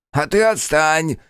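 slow, loud angry snap. A narrator's reading. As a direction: snap at her in anger. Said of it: "злился Шут".

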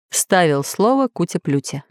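plain reading voice

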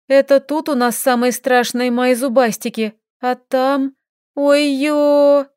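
rising alarm, ending in a yelp; worried, then a sudden "oh no"; startled fear. Acted. Lilka frightened about monsters.

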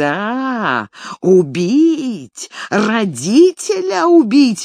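put-on old man shrieking while pulling the boy's hair; shrill squeal. A narrator's reading. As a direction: screech it as an outraged old man. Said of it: "визжал он".

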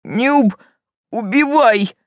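raspy, hissing monster plea; hissing rasp. Acted. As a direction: hiss and wheeze it out. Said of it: "прохрипел тот гадким шипящим голосом".

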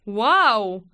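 loud, drawn-out wow; appreciative exclamation; admiring sigh. A narrator's reading. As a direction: breathe out in admiration. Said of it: "раздался восхищённый вздох".

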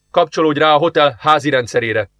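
eager, quickened order; he thinks he has found something; excited. Acted. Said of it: "szólalt meg izgatottan az alparancsnok". (izgatott parancs)

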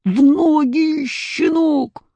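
put-on high barking roar of an angry boyar; рявкнул. A narrator's reading. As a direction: bark the order down at the boy. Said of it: "и рявкнул". (рявкает сверху вниз)

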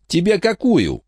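high, sleazy thug voice; leering young hoodlum. Acted. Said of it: "сказал Дэрил".

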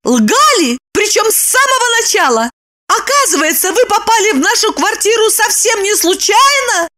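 high, furious woman's voice; furious Lipochka. A narrator's reading. Lipochka in a rage at Roman. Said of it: "пришла в ярость".

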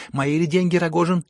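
high, ringing challenge; loud demand. Acted. Heroine asks Rogozhin before everyone, loudly demanding. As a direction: demand it loudly for all to hear.

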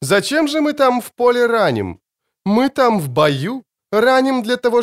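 выше, с издевательски зловещей растяжкой; издевайся спокойно и страшно; зловещая насмешка. Acted. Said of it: "зловеще растягивая слова". (эльф зловеще насмехается над лекарями)

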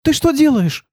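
high, alarmed cry; girl frightened as Kir draws the gun, high alarm. Acted. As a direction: gasp it out in fright. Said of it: "испугалась девушка".

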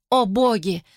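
high, rising cries of agony; woman in agony calling to the gods; anguished cry. Acted. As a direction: cry out as if burning alive. Burning woman screams for help.

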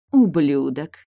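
a forceful insult just before the kiss; emphatic whisper. A narrator's reading. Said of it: "с нажимом прошептала она".

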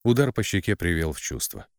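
usual speaking voice

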